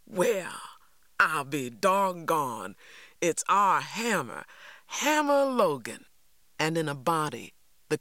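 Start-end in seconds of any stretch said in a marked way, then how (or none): 0.1-6.1 a delighted shout from the crowd, rising to a high peak on the name; excited cry. A narrator's reading. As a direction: hail an old friend you haven't seen in years. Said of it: "someone cried".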